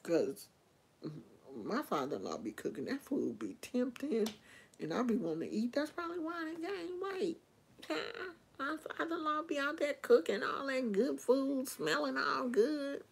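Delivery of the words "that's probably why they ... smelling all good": high, soft, yearning whine; high soft mock whimper; longing whine. Real, not acted. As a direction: whimper with craving, pitched up. Yearning for father-in-law's cooking.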